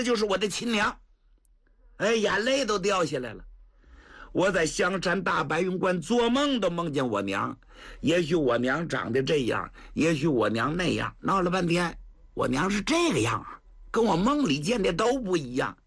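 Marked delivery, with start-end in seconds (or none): 4.3-15.8 put-on tearful young man. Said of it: "他这一哭".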